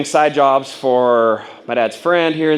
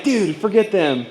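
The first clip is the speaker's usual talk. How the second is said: aggressive; 8 semitones higher than usual. Retold or imitated. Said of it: "super aggressive".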